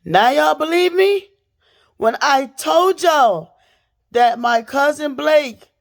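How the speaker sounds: high, loud, slow I-told-you-so; told-you-so to her viewers, high and loud; vindicated outburst. Real, not acted. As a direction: drag it out, triumphant and loud.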